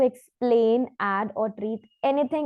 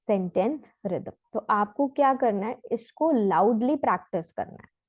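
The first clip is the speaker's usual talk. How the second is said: ordinary talk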